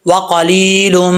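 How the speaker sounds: وَقَلِيلٌ drawn out slowly, each letter clear; slow recited demo. Shown as a demonstration. Teacher models وَقَلِيلٌ slowly for students. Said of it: "ایک الف کی مقدار لمبا کریں گے".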